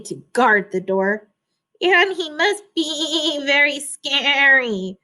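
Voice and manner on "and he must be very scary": stammering sheep. Acted. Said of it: "the sheep stammered".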